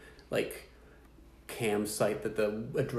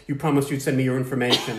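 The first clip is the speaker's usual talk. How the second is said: mock angry caps; 6 dB louder than usual. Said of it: "it's all capitals".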